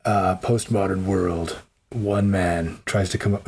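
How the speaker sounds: dramatic trailer narrator, slow; movie trailer voice. Retold or imitated. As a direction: intone it like a film trailer. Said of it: "one man in a world".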